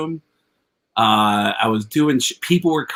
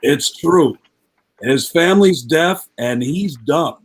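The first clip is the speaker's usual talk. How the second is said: Gene; 4 dB louder, slower than usual. Retold or imitated. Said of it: "Gene goes".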